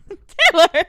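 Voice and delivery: loud high cry of a name; loud scolding. Real, not acted. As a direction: protest loudly, half laughing. Scolding outburst.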